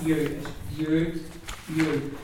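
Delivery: U with lips pushed out as if to kiss; teacher showing rounded U. Shown as a demonstration. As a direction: round and push the lips forward for U. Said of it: "Pretend you're kissing somebody".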